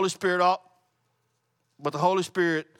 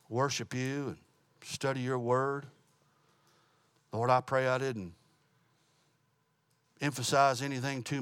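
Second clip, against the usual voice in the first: closing prayer. Real, not acted. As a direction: pray humbly to close.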